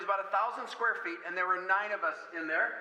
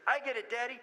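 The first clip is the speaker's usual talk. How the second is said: put-on higher, eager toddler voice; little girl's voice; 5 semitones higher than usual. Small daughter offering to fetch the crying doll, higher. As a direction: chirp it like a small helper. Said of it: "Megan says".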